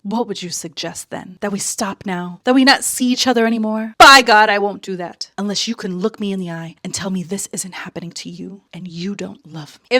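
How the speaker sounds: lightly hammed-up romantic hero, with a loud fast peak at By God; melodramatic duke. Duke pleading with Sarah not to end it, mock melodrama. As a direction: read it like a soap-opera leading man. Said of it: "And his response is".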